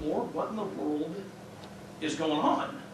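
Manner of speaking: near-voiceless, soft anguished plea to the Lord; retold stunned whisper to God; hushed prayer. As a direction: breathe the question out like a broken prayer. Retold anguished prayer after accident.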